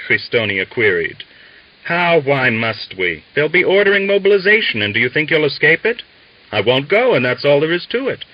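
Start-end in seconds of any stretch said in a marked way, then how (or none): 1.8-6.0 high, loud and fast outburst; he can't believe their doubt; heated. A narrator's reading. Valyat shouting his case to the Cossacks, heated and fast. 6.5-8.2 loud firm refusal; defiant. A narrator's reading. Christonia refusing mobilization, loud and defiant.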